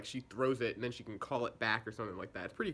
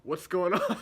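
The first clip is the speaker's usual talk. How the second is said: a light, drawn-out Cockney greeting; mock Cockney, louder on the question; Cockney accent; 3 semitones higher, 4 dB louder, slower than usual. Assassin greeting her target, in mock Cockney accent. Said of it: "like, Cockney accent".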